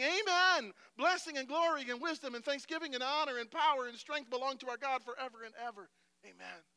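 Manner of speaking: loud, high opening, easing toward the end; exultant proclamation. Acted. Angels praising God at the throne, loud exultation. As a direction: call out the praise at full force. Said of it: "They sang".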